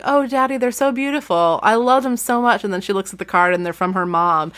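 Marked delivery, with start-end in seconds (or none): 0.0-2.6 put-on high, gushing little-girl thank-you; gushing daughter. Daughter gushing to her dad over flowers, high and sweet. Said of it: "And Kelly's like".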